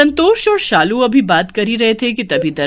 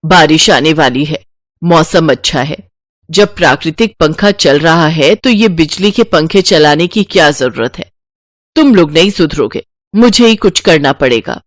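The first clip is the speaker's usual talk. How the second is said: louder, slightly lowered scolding; stingy mother-in-law, exasperated; 3 semitones lower, 5 dB louder than usual. Acted. Mother-in-law refusing to let family run the fan, exasperated. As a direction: overrule the family with raised voice.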